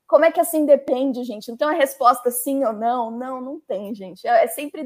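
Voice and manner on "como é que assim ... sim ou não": louder, higher mock outrage at a vague answer; exasperated business people. Business team complaining to the lawyers, mock exasperated. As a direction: imitate a frustrated manager demanding a yes or no. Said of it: "enfurece as áreas de negócios".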